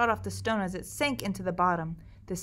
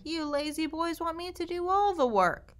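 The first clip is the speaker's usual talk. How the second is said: exasperated; 9 semitones higher than usual. Acted. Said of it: "I cried".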